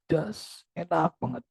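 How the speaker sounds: relieved sigh. Retold or imitated. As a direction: let out relief after a drink. Client sighs relief after drinking.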